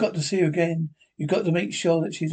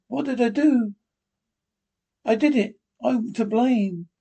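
higher, distraught self-blame; hysterical; 6 semitones higher than usual. Acted. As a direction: blame yourself in a panic. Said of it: "You're hysterical".

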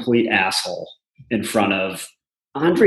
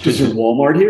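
mocking; faster than usual. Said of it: "their whole attitude".

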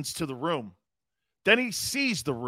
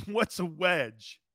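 laughing mock question; 7 dB quieter, much slower than usual. Mocking the word wedge.

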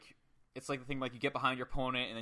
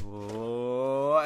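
imitated whoa; 3 semitones lower than usual. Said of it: "he goes".

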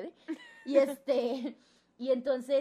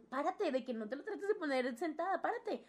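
tender instructions; 4 semitones higher than usual. Retold or imitated. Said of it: "Me dice".

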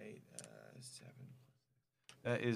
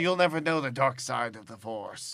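excited shout; 7 semitones higher, 14 dB louder than usual. Real, not acted. Celebrating kill, Star Wars quote.

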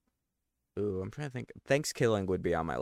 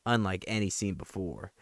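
horror trailer voice. Acted. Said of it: "went through, like, five different accents".

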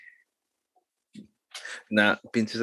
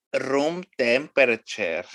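spanglish; 3 semitones higher, slower than usual. Retold or imitated. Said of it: "mamá dijo".

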